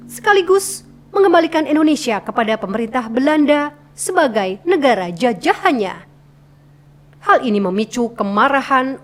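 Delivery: expressive narration reading with rises and falls on key words; narration with intonation. Shown as a demonstration. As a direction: play up the tune of each phrase. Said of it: "kita main intonasi". (narasi dengan intonasi naik turun)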